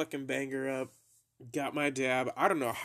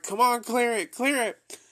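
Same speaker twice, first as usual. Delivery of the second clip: high, loud egging on; excited urging; 11 semitones higher, 9 dB louder than usual. Retold or imitated. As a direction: push him to clear it. Mom urging him, laughing.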